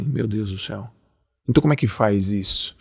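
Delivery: bem mais baixo, quase para si; desabafo baixinho. Retold or imitated. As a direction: resmunga baixinho como o ouvinte aflito. Ouvinte imaginário desesperado. (desabafo em voz baixa e aflita)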